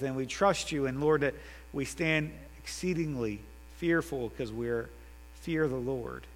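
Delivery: earnest prayer voice, rising then settling; leading prayer. Acted. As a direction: pray sincerely for the congregation. Closing prayer led by the preacher.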